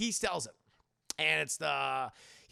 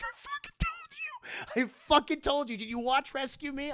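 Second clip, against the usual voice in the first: ghost voice; 11 semitones higher, 5 dB louder than usual. Retold or imitated. Dennis Leary's ghost scolding Peter.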